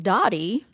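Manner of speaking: "Dottie" with an open ah for daddy's first vowel; childhood pronunciation. Retold or imitated. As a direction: say "Dottie", imitating a child's proper-sounding daddy. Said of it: "but we'd be like".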